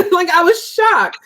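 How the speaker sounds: amused disbelief, laughing as she speaks; a real laugh breaking into the line. Real, not acted. Laughing while retelling her shock.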